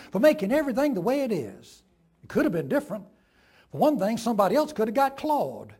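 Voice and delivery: a lightly voiced proud Southern lady; Mrs. Turpin. Preacher voicing the smug farm wife, lightly. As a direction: play her pleased with herself.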